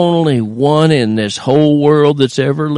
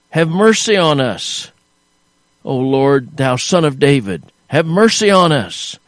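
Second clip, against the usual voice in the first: retold shout; 2 semitones higher than usual. Preacher voicing the blind men's cry, raised plea. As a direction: call out for mercy, lifted pitch. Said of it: "they were shouting with such a, a loud volume".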